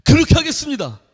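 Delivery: high, crisp private reporting to a senior; military yes-sir voice; private answering a senior. Retold or imitated. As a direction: snap it out like an eager recruit. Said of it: "쫄병은 고참에게".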